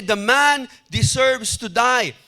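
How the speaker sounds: measured, slow, mildly outraged; David condemns the man, slow and lightly angry; slow angry verdict. Acted. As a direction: pronounce the death sentence slowly and firmly. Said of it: "Grabe ang galit ni David".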